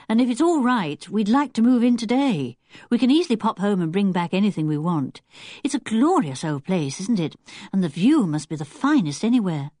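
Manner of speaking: lightly voiced, eager boy; polite, keen Julian. Julian asks Missus Lehman about moving in, polite and keen.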